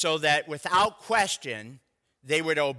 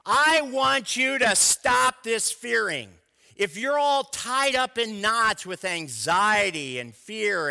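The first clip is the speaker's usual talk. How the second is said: urgent, firm and deliberate; earnest command; 4 semitones higher, 3 dB louder than usual. Acted. God urging his people to stop fearing, earnest and firm. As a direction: press it home like God insisting. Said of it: "God is saying".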